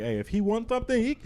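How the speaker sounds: very high mock-angry caricature; retold angry clerk. Imitating the laughed-at clerk refusing service, high-pitched mock anger. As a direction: squeal the refusal in mock outrage. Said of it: "the guy got so angry".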